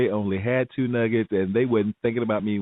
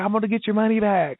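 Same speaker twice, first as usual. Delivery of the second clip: flustered manager; 12 semitones higher, 3 dB louder than usual. Retold or imitated. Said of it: "he's like".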